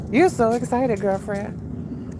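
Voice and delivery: high, loud coo at the excited dog. Real, not acted. Owner cooing to her excited dog, high and loud.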